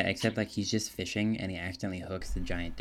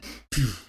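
keyboard impact sound effect done by mouth; short, punchy puff of an impact; mouth-made keyboard effect; imitated impact noise; 3 semitones higher, 5 dB louder than usual. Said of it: "like the impact noise".

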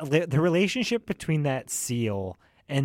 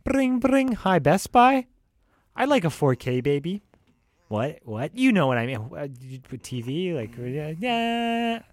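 mock phone call; 4 semitones higher, 3 dB louder than usual. Acts out calling Best Buy.

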